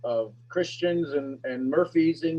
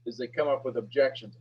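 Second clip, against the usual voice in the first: usual speaking voice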